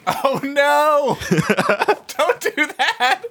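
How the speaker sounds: high, slow, alarmed; alarmed high plea. Real, not acted. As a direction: cry out in alarm. Alarmed warning to player.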